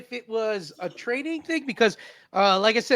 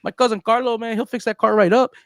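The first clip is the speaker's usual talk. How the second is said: laid-back Chicano captain spinning his tale; easygoing homeboy captain telling his story; cholo captain; 2 semitones higher than usual. Pretend. Captain explains the bridge crash, laid-back cholo voice.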